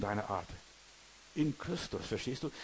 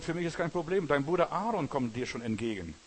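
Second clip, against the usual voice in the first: lightly acted reply, pitched up a little; God answering Moses; 2 semitones higher, 4 dB louder than usual. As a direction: brush the objection aside in a raised voice. (leicht gespielte, bestimmte Antwort Gottes)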